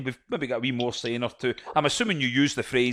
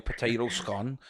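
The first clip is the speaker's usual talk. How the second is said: bad Liverpool accent; 3 semitones lower, 4 dB quieter, slower than usual. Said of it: "the world's worst Liverpool accent".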